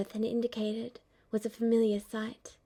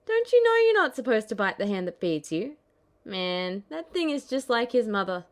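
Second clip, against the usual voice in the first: louder, wounded grumbling; hurt Zack scolding; 6 dB louder than usual. Acted. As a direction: scold the chick, feeling hurt.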